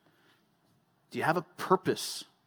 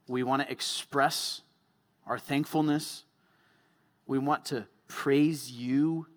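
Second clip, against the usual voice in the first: earnest pastor praying aloud for the group; closing prayer. Acted. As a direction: reverent prayer, slowing on key phrases.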